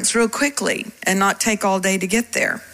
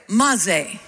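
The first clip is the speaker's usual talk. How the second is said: put-on Hebrew accent; 3 semitones lower than usual. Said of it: "Best Hebrew accent".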